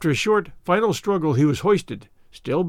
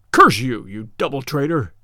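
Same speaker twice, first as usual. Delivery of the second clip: louder burst on curse you, then clipped off; angry cry; 2 semitones lower, 4 dB louder than usual. Acted. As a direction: spit the curse at the traitor. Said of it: "cried the German".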